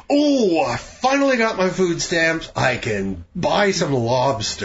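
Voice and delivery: sarcastic imitation of a poor person; mock glee, pitch up on Oh; mocking high voice. Mocking poor people buying lobster.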